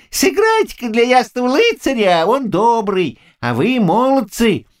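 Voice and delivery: put-on high, eager bustling old man's voice. A narrator's reading. Old man urges lads to fetch mead, eager. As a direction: hurry the lads along gladly.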